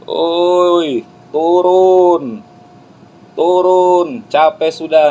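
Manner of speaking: high, loud drawn-out jeering; penonton mencemooh. Acted. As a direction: heckle from the stands, loud and high. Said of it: "Itu penonton". (sorakan cemooh penonton, lantang melengking)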